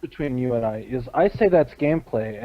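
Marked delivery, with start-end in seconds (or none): 1.1-2.4 unimpressed. Retold or imitated. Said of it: "and I sound unimpressed".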